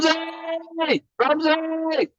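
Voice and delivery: booming high announcer call; fighting game announcer. Acted. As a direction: call the name like a ring announcer. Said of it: "said in that, uh, announcer voice".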